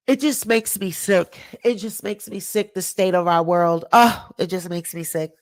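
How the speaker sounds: real upset, voice drops low and soft; disgusted and hurt, fighting back emotion. Real, not acted. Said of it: "I don't mean to get emotional".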